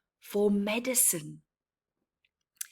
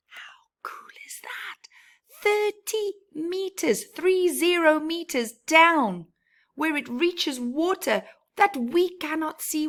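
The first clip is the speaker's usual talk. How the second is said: high, bright exclamation of wonder; amazed kid gushing over thirty meters; excited wonder; 8 semitones higher, 4 dB louder than usual. Acted. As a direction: marvel at it, voice jumping up. Excited about deep roots.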